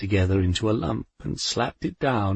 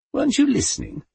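snapping; faster than usual. A narrator's reading. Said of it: "Death snapped".

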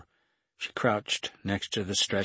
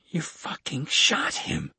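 higher, drawn-out outraged cry; louder yell; 7 semitones higher, slower than usual. A narrator's reading. Kate accusing the gunman a second time, high slow cry. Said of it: "Kate said again, louder".

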